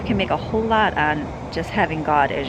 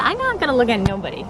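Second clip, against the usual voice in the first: voicing the dog; 5 semitones higher than usual. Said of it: "she said".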